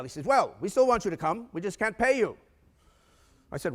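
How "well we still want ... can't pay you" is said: mock German accent, pitched up; lightly put-on German accent. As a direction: imitate the client's German-style accent. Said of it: "a German accent".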